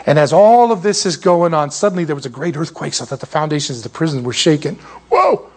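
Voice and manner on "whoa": mock whoa. Reacting to the earthquake.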